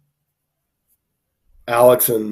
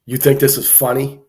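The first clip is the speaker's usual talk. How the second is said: tough-guy cop; 3 semitones higher, 5 dB louder than usual. Retold or imitated. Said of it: "he's trying to play the tough guy".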